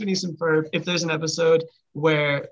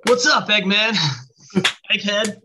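Sonic impression; 4 semitones higher than usual. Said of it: "done his voice".

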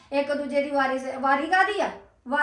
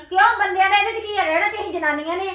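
heated challenge; 3 semitones higher than usual. Acted. Younger woman challenges elder over splitting the household, heated. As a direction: fire the question back in anger.

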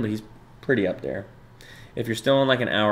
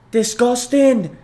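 much higher, loud and very slow, dragged-out groan; mock disgust; 13 semitones higher, 7 dB louder, much slower than usual. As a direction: drag it out like you're about to gag. Mock reaction to blue cheese.

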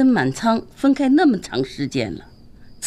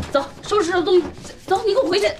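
angry order; 11 semitones higher, faster than usual. Acted. Mother throwing daughter out.

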